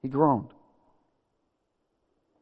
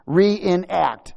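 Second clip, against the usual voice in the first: "Reenact" in slow, separated syllables; word broken down; 5 semitones higher, 3 dB louder than usual. Shown as a demonstration. Preacher teaching congregation the word "Reenact", syllable by syllable. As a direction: spell out "Reenact" piece by piece, raised and firm. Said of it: "Do y'all get it?".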